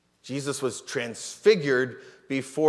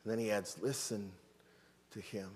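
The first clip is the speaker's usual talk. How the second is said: voice of the Father; 7 dB quieter than usual. Retold or imitated. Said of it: "the voice of the Father saying".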